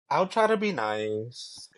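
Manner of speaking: "try" drawn out in a slow promise; emphasis on try. Real, not acted. Co-host promising the host to be nice, stress on "try". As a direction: lean on "try", taking it slowly. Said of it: "Emphasis on try".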